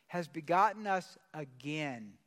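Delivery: slow, firm repeat with "again" drawn out; deliberate reading, weight on "again"; emphasis on AGAIN. Shown as a demonstration. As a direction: lean on "again", stretching it at the end. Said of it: "There's one word I want to emphasize".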